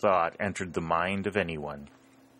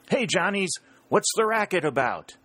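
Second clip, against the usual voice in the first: much higher, louder shout; shouting at the top of his voice; 12 semitones higher, 4 dB louder than usual. A narrator's reading. Yankee picket asking the Johnnies about the cheering, full shout. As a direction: bellow it across the river. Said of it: "called at the top of his voice".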